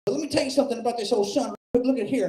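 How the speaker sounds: put-on high, twangy old barfly voice; aunt needling the comic, high and mocking. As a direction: lean in like a leering old aunt. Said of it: "she looks at me and says".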